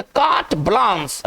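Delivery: कार्ट ब्लांस as two distinct words; pronunciation demo. Shown as a demonstration. Teacher repeating the reading for students, कार्ट ब्लांस said distinctly. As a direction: model कार्ट ब्लांस clearly, falling at the end. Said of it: "इसको पढ़ेंगे".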